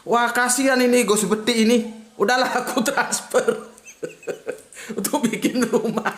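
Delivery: mock-generous oil king voice; rich oil king. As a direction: play the generous oil king taking pity, half joking. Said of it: "terus ada Raja Minyak".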